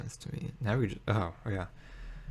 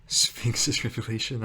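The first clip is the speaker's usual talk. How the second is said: slow, laughing through the card name; 2 semitones higher, slower than usual. Real, not acted. Player laughing at the opponent's card, slowly. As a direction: let a real laugh break the name.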